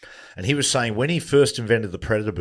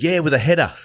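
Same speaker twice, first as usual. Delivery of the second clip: higher, louder, laughing through it; laughing retort; 5 semitones higher, 5 dB louder than usual. Retold or imitated. Telling his mate, laughing as he says it. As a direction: laugh out the punchline. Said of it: "He said".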